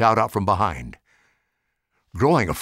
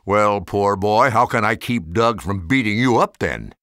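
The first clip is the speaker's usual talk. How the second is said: mocking; 3 dB louder than usual. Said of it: "Maggie laughed".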